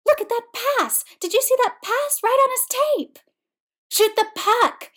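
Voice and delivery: high-pitched excited heckling from the stands; howling hockey fan. Acted. JJ cheering on a brutal hockey game, howling excitedly. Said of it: "howled J J".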